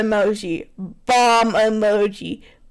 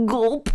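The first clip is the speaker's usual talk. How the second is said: spoken gulp; 2 semitones lower, 4 dB quieter than usual. Shown as a demonstration. Reader testing a gulp sound, said softly. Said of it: "Let me see if I can gulp".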